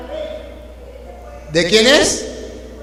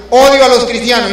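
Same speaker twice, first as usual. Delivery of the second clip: quoting an atheist; 3 semitones higher, 6 dB louder than usual. Retold or imitated. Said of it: "decía por allá un ateo".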